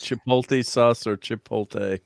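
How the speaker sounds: first Chipotle ends "-tee", second chipotle ends "-tay"; two pronunciations. Shown as a demonstration. Host reads listener's question, slowly contrasting chipotle endings.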